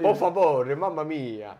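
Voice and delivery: a hint of Italian flair on "mamma mia"; mock Italian. Shown as a demonstration. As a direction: throw out some showy Italian. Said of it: "Hábleme un poco de italiano". (italiano de broma)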